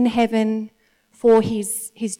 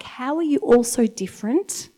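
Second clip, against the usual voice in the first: amazed mum; 5 semitones higher than usual. Retold or imitated. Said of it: "just get totally like".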